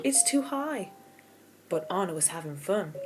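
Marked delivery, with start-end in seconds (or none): 0.0-0.9 high, anxious warning; worried. A narrator's reading. Elsa anxiously warning Anna. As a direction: fear she'll fall. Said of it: "starting to get worried".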